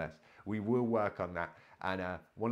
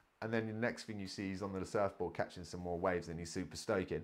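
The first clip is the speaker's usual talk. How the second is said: ordinary talk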